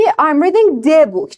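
I'm reading the book, slow, rising on reading; slow model sentence. Shown as a demonstration. Teacher slowly models the sentence for students. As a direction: say it slowly and let it rise. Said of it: "بگی".

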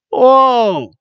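high, loud drawn-out exclamation; high fan-style gasp of awe; amazed whoa. Pretend. Cheers the move.

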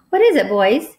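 impatient. Acted. Teacher interrupted by two boys, impatient. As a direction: cut the boys short, impatiently. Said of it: "she said impatiently".

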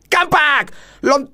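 high drawn-out wah; excited exclaim. Real, not acted. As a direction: stretch it out in surprise. Excited reaction to slot result. (seruan kaget panjang)

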